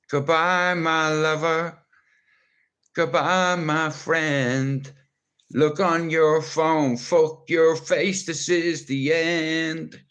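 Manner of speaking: slow, drawn-out dramatic goodbye; mock farewell. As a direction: ham up the tragic breakup line slowly. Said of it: "Finn's gonna say".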